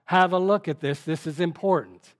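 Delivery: grab their attention, insistent; emphatic. Shown as a demonstration. Angel urging the student Ezekiel to look, emphatic urging. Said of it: "It's emphasis".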